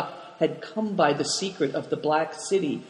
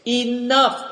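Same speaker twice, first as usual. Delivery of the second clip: high, louder cut-off; sharp cry; 7 semitones higher, 3 dB louder than usual. A narrator's reading. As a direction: stop the story dead with one word. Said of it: "cried Dampignac".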